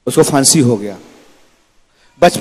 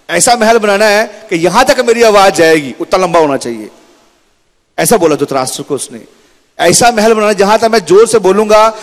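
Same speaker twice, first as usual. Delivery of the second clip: boastful demand; 5 semitones higher than usual. Acted. Son demands gambling palace. (ऊँची, ज़ोरदार शेखी भरी माँग)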